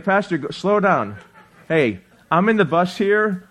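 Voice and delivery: laughing through a playful complaint; laughing mock passenger. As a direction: chuckle while mocking a nervous passenger.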